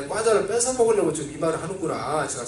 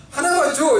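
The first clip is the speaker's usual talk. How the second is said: higher and louder eager plea; childish begging; 8 semitones higher, 6 dB louder than usual. Retold or imitated. Boy begging his friend for one snack, high loud plea. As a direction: beg loudly for just one. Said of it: "이렇게 했더니".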